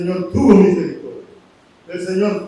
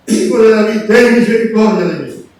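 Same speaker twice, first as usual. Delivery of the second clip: louder imitated cry for mercy; insistent retold plea; 6 dB louder than usual. Blind man persisting with Jesus, insistent retold plea. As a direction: press the plea with added volume. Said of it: "Seguía insistiendo".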